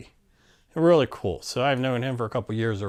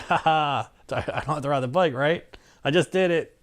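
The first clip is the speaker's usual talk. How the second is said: cocky gloating; 5 semitones higher than usual. Retold or imitated. Teasing Randy about skipping the bike, gleeful. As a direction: gloat like you just dodged a chore.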